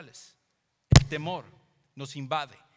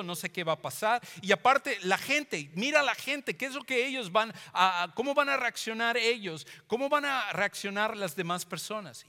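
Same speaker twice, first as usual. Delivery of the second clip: rising, pleading voice full of worry; anxious plea; 4 semitones higher, 3 dB louder than usual. Retold or imitated. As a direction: beg God anxiously, louder and higher. Moses voiced pleading with God. (Moisés suplicando a Dios con angustia)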